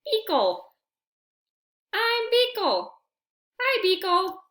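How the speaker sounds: high, eager little-creature voice; a small friend cheerfully naming himself; excited introduction. Acted. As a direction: introduce yourself with glee. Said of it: "They realized".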